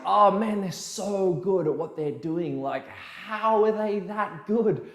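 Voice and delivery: slow, awed envious sigh; mock envy at a rival's skill. Coach mimics his envious self muttering about better dancers. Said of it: "jealous of, like".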